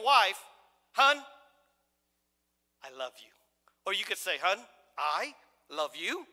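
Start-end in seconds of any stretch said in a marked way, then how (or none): 0.9-3.3 tender murmur. Shown as a demonstration. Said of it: "your tone of voice is different". 4.4-6.3 slow sarcastic drawl. Shown as a demonstration. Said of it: "your tone of voice is different".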